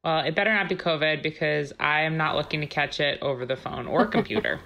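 muffled behind a face mask; speaking through a mask. Real, not acted. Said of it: "I'm wearing a mask right now".

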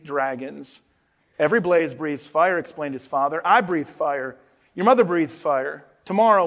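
expressive picture-book narration; storybook read-aloud with paced reveals; reading to children. Acted. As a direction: tell it to the kids like a bedtime storybook.

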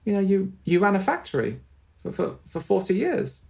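a light, sweet reassurance; tender high reminder to a forgetful husband; sweetly. Retold or imitated. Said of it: "my mum just very sweetly said".

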